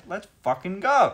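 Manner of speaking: slow, loud hype shout; psych up yell. Real, not acted. Game invite arrives.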